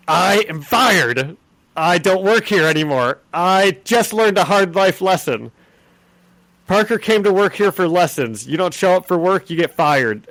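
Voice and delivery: hammed-up newspaper boss; mock boss lecture. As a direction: lecture the kid like a bossy editor. Jonah firing lecture retold.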